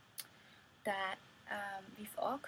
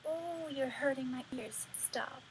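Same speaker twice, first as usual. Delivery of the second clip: higher-pitched imitation of a protester; lightly acted pained objection; mock complaint; 5 semitones higher, 3 dB louder than usual. Someone objects to a child singing out loud, mock complaint.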